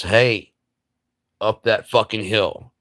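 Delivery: loud barked order up the hill; rallying shout, high and loud; leader's shout. Retold or imitated. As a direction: yell it like a drill leader driving troops.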